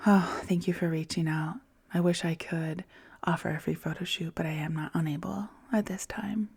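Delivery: soft whispered kind no; gracious refusal. Shown as a demonstration. Declining a free photo shoot, gracious whisper. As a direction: turn them down gently in a whisper. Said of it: "How can I be gracious".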